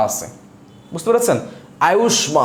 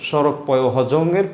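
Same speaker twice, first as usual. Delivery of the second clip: slow rule recital; 3 semitones lower, slower than usual. Shown as a demonstration. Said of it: "নিয়মটি হচ্ছে এরকম".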